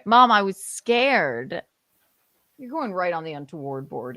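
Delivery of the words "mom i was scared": put-on whiny child.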